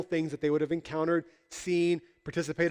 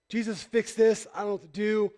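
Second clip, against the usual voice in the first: mock helpless plea; 4 semitones higher than usual. Brother pleading with Jesus to step in.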